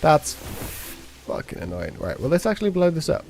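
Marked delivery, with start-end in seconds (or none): 0.0-2.0 frustrated. Real, not acted. Frustrated at game controls.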